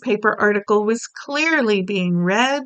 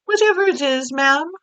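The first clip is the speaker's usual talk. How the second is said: maid's voice; 5 semitones higher than usual. Acted. Maid answering the Queen.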